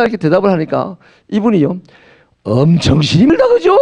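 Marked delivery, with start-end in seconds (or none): 2.4-3.8 Gyeongsang slip. Retold or imitated. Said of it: "뽀록 났습니다".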